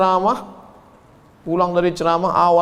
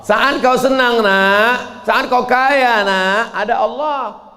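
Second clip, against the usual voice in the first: louder, higher earnest advice; earnest parental counsel; 5 semitones higher, 3 dB louder, much slower than usual. Acted. Preacher addresses a child earnestly, then slows. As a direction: press the point gently but firmly.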